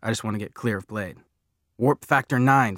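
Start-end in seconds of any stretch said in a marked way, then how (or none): 1.8-2.8 loud, high, slow rallying shout. A narrator's reading. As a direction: shout it like an excited command to a steed. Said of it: "Freak is shouting".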